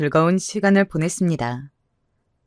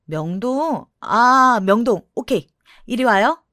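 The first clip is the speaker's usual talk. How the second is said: sudden realization; 4 semitones higher, slower than usual. Acted. Kevin realizes the destination.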